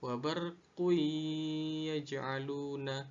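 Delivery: WA BARQU YAJ'ALUNA chanted, n melted into long y; merged idgham reading. Shown as a demonstration. Teacher showing how it is read, "wa barqu yaj'aluna" with held merge. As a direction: hold the hum into "yaj'aluna". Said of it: "sehingga cara bacanya".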